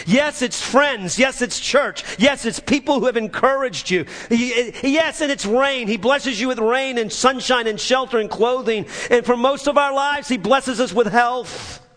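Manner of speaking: high, driving list of blessings; impassioned preaching. Real, not acted. Preacher counting blessings for the congregation, impassioned preaching. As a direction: pile up each blessing with rising fervour.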